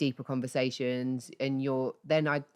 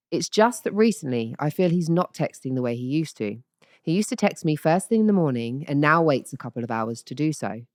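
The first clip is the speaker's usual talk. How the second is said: plummy radio-presenter read, a touch louder; posh BBC voice; 9 dB louder than usual. Pretend. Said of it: "Should I do my B B C voice?".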